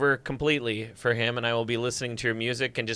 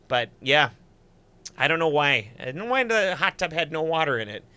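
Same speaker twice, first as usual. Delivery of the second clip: folksy northern Wisconsin storytelling accent; Superior Wisconsin accent. Shown as a demonstration. Host recalling a night out in Canada, Wisconsin accent. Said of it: "Superior, Wisconsin accent for you".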